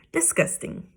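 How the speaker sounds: breathy whispered "disgusting". Acted. Mother agreeing with daddy, whispered disgust. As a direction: whisper it with distaste.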